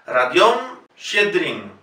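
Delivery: Radión Shedrin slowly, "ra-DION"; careful Radión with A in first syllable. Shown as a demonstration. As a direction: model Radión Shedrin, unhurried. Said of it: "lo pronunciamos como A".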